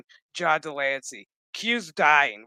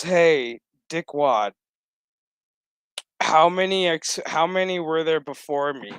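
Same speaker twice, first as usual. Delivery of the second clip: mock sassy yell; 5 dB louder than usual. Daughter confronting him.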